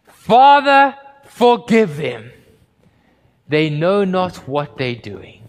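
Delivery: sudden loud high cry, then slow pleading; Jesus crying out from the cross, loud then slow. Acted. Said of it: "he cries out".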